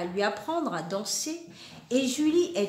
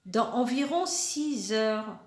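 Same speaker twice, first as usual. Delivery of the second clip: dejected. Acted. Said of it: "répond papa dépité".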